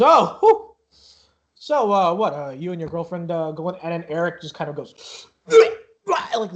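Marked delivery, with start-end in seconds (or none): 0.0-3.8 out of breath. Acted. Half-elf asks the two visitors, out of breath. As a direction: catch your breath, then ask. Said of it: "seems out of breath".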